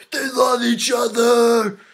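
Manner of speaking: drawn-out, high, exaggerated yell; mocking shout. Reviewer mocking the film forcing its romance, exaggerated shout. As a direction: bellow it slowly in a mock-dramatic voice.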